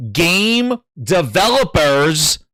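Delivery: slow, lightly New York "game developers"; New York accent. Shown as a demonstration. Streamer showing off his New York accent on "game developers". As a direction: drawl "game developers" New York style, only a hint of it. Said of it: "without the New York accent".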